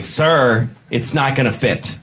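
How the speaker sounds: lightly camp flight attendant; slightly camp steward. Acted. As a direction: say it with just a hint of camp. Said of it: "he was only slightly gay, like that".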